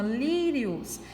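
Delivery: "Lírios" with a drawn-out LÍ; stress on accented syllable. Shown as a demonstration. Teacher showing the strong syllable, "Lírios" stressed on LÍ. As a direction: lean on the first syllable of "Lírios". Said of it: "a sílaba acentuada é a mais forte".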